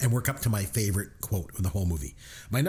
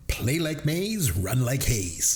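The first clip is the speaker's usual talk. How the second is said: slow quote delivery; slower than usual. Retold or imitated. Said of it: "my number nine".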